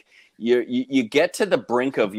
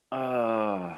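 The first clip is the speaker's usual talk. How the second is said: mock hesitant "uh", drawn out and softer; reluctant groan; 7 dB quieter than usual. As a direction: let out a long, quiet, reluctant groan. Acted reluctance on hearing the price.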